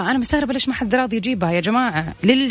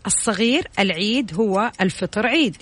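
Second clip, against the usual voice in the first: backwards speech. Shown as a demonstration. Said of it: "أنا حقول لك ثاني مرة".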